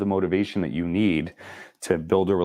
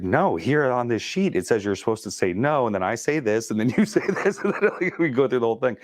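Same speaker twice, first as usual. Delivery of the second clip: flustered laughing; 4 semitones higher than usual. Retold or imitated. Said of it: "I was like".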